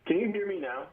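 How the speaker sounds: distant voice on a bad line; talking from another room; far from mic. Real, not acted. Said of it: "sound like you're in a different room".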